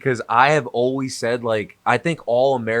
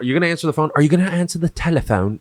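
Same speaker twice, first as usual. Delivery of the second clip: lightly put-on British accent, a little raised; mock British; 3 semitones higher, faster than usual. Cohost mocking British wordiness, in a put-on British accent. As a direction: escalate a fussy British question. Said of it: "That's that British shit".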